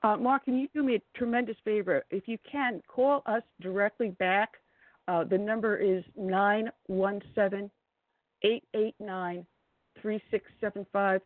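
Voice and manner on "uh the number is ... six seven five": reading the number slowly for a bad line; slow and clear. Real, not acted. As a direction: spell out each digit carefully. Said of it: "'cause I'm getting, like, every other word".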